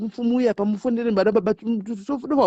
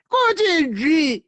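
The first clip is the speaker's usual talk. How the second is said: slowly drawn out; 7 semitones higher, much slower than usual. Shown as a demonstration. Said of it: "drawn out".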